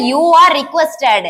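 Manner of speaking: each word drawn out very slowly for the class; slow dictation. Shown as a demonstration. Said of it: "அப்ப". (மிக மெதுவாக dictation சொல்வது)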